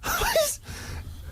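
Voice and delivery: high incredulous laugh. Real, not acted. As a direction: burst out laughing in disbelief. Laughing at Karl's accusation.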